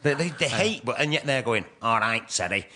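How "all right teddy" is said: rough attempt at a Manchester accent. Northerner imitating chat to a fellow comic, Manchester accent. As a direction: have a go at a Mancunian voice. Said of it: "Me trying to do a Manchester accent".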